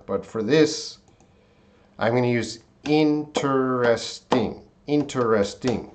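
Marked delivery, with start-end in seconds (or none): 2.8-5.9 "interesting" broken into in-ter-es-ting; "interesting" with a clear "ter" in the middle; four-syllable interesting. Shown as a demonstration. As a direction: say all four beats of "interesting".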